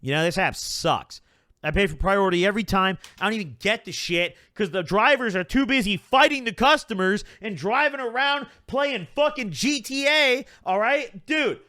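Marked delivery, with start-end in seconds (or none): 1.6-11.6 higher-pitched, heated venting that keeps climbing; worked-up rant. Real, not acted. Vlogger venting at Uber Eats, heated and higher-pitched. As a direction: get riled up complaining about the app. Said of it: "now I'm worked up".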